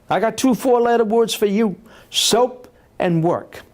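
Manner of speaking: put-on high, taunting Alabama accent; George Wallace. Politician taunts shouting hecklers, high Alabama accent. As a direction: Alabama stump speaker, drawing out the punchline. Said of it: "in that Alabama accent".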